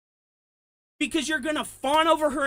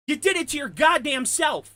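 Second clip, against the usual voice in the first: worked up shout; 3 semitones higher than usual. Real, not acted. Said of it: "But I got worked up right there".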